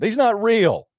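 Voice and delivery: high, loud mock scream; retold scream. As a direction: shriek it like the panicked passenger.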